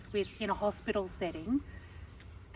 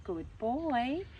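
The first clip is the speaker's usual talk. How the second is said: higher, slower, encouraging praise; 5 semitones higher, slower than usual. Shown as a demonstration. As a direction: cheer on a child doing well. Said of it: "like when we have a child".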